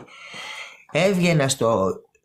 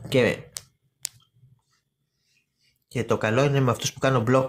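ordinary talk, nothing marked

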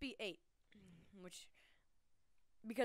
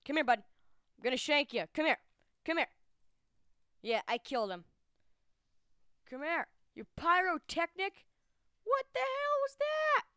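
yelling; 3 semitones higher, 10 dB louder than usual. Real, not acted. Chasing an enemy, yelling.

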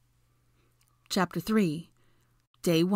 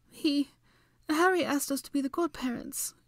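blubbering; 10 semitones higher than usual. A narrator's reading. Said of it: "she blubbered miserably".

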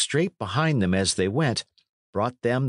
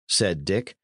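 ordinary delivery

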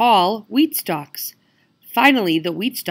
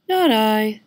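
sniffy cat; 3 semitones higher, 5 dB louder than usual. Acted. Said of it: "sniffed the cat".

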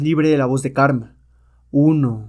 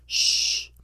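hushing; 7 dB quieter than usual. Acted. Hushing to stay hidden.

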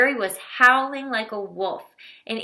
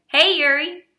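high, loud friendly call; 8 semitones higher, 6 dB louder than usual. A narrator's reading. Kuba calling back to Yuri while running, loud and high. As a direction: shout a greeting across the street.

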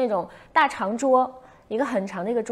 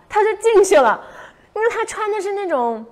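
ordinary delivery

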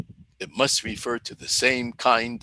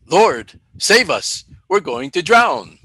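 panicked cry for help; 4 semitones higher, 6 dB louder than usual. Acted. Disciples waking Jesus in storm.

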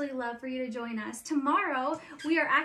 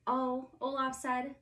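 story narration. A narrator's reading. Reads Frozen story aloud.

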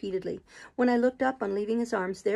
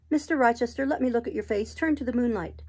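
slightly raised voice, insistent; Jane, earnest request; 3 semitones higher than usual. Acted. Jane asks her master to face the moonlight, earnest. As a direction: ask firmly to read his face.

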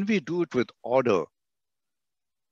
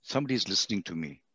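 soft, fast, hushed relief; a touch of grateful wonder; relieved caller; 6 semitones lower, 9 dB quieter than usual. Retold or imitated. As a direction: sound surprised someone cares. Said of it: "the other person at the other end will say".

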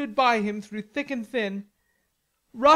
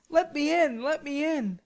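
higher, pleading knight; imploring; 4 semitones higher than usual. A narrator's reading. Knight begs through the hedge, imploring. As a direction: plead to be let in. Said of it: "saying imploringly".

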